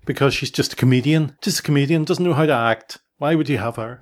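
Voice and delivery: mildly scornful, imitating the doubters; dismissive. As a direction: voice other people's dismissive grumbling. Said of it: "people were very dismissive of her".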